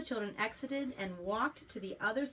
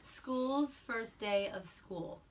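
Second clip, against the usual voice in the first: slow, drawn-out title reading; title read aloud; 3 semitones higher, much slower than usual. Acted. Mother to child, reading the title slowly. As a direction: announce the book title slowly.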